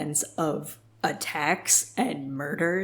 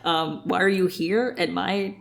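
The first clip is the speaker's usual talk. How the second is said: mock confused Adrian; 2 semitones higher than usual. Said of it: "It's like".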